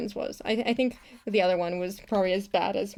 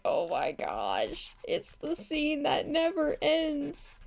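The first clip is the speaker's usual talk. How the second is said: mock exasperation; 5 semitones higher, 6 dB quieter, slower than usual. Animator facing seventeen clips, mock exasperated. Acts out dread at endless scene.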